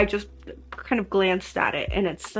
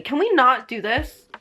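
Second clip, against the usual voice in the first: hurt pleading; 3 semitones higher, 4 dB louder than usual. Real, not acted. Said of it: "It hurts".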